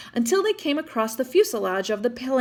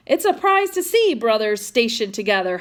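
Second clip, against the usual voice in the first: yelled; 4 dB louder than usual. Acted. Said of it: "Hogan yelled".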